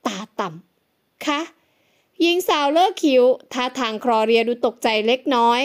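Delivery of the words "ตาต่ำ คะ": slow, much softer mutter under the breath; muttered in French. A narrator's reading. Head maid mutters French insult about the guest, slow and soft. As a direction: mumble it to yourself, not meant to be heard. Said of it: "พึมพำเป็นภาษาฝรั่งเศส".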